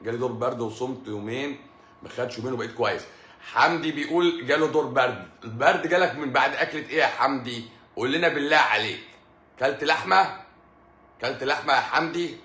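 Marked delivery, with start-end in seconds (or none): 3.4-12.4 louder, mock interrogation; loud teasing. Real, not acted. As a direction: grill Hamdi playfully and loud. Teasing Hamdi loudly.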